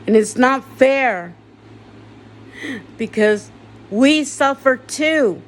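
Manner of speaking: grieving patient shouting down the hospital that failed her family; angry rant. Real, not acted. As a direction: let the anger at the hospital boil over.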